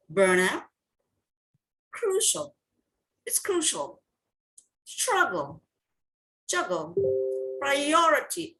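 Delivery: each word from Burnout to Priority set apart, stressed syllable clear; stress demonstration. Shown as a demonstration. Teacher gives class the stress answers, stress demonstration. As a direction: read Burnout, Crucial, Struggle, Juggle, Priority as separate models. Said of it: "These are the answers".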